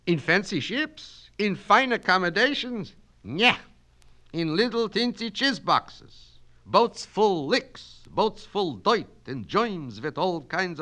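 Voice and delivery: put-on high, loud Yiddish-accented orator; Yiddish-accented Kaplan, holding forth grandly; Yiddish-accented immigrant student. Student lecturing his night class in a Yiddish accent. Kaplan scorns Columbus's boats.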